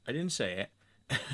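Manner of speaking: laughing through the words. Retold or imitated. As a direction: chuckle while repeating it. Repeats the denial, laughing.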